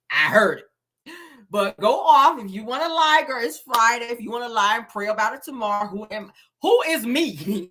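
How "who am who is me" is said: lightly mimicked slow, drawn-out speech; Wanda. Host talking like Wanda to tease her, slow mock imitation. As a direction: stretch it out in a mocking imitation. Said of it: "Let me talk like you, Wanda".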